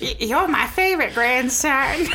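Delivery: doting grandparent. Pretend. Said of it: "I do the best grandma voice".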